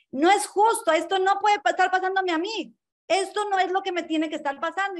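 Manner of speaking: high, loud whine of outrage; indignant protest. Retold or imitated. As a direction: protest it like a wronged child. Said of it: "es como decir".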